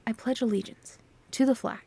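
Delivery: hushed, words rounded off at the ends; a creepy old teacher fading into a hush; Welk's creepy voice. Shown as a demonstration. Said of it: "a creepy voice".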